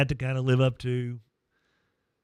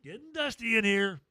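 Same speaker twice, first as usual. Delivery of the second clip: choked-up joking; 9 semitones higher than usual. Retold or imitated. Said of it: "and not go".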